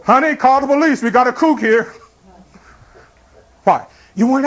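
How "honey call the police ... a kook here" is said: mock alarm at a stranger at the door; startled homeowner. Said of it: "you hear a voice go".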